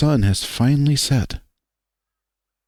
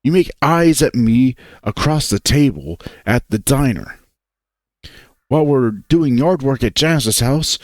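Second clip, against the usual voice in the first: angry; 2 semitones higher than usual. Acted. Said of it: "getting angrier".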